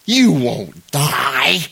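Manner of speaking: very slow, drawn-out serpent line; hissing serpent. Acted. Serpent hissing to the woman, slow and drawn out. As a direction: stretch it out like a tempting snake. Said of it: "the serpent hissed".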